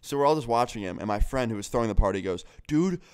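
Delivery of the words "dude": high, loud, drawn-out mock yell; imitated yelling. Party host yelling at drunk guest through the door, imitated yell. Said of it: "he's yelling it through the door".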